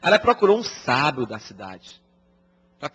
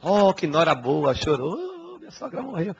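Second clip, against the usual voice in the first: mock mourning; 3 semitones higher than usual. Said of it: "ainda chora no enterro".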